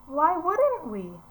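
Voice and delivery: high, loud and slow; worried child. Acted. Teacher voicing the daughter answering her relieved mom, high and slow. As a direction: drag the words out, uneasy.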